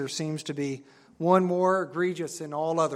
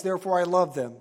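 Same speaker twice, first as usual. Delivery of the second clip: light, deliberately wrong reading set up to be corrected; mock misquote; 3 semitones higher than usual. Preacher teasing the congregation with a wrong quote, lightly mocking. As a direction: offer the false version gently, as a setup. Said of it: "No, he doesn't say that".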